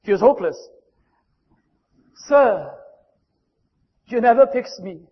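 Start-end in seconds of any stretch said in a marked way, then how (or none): 2.3-5.1 put-on little boy's voice. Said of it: "there came a little voice".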